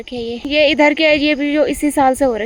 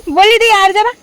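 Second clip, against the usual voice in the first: quoting mom again; 4 semitones higher, 6 dB louder than usual. Retold or imitated. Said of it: "mummy एक dialogue बोलती है".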